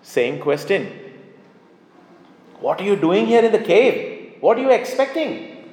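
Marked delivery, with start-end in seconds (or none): 2.6-5.7 voice of God. Acted. God questions Elijah in the cave.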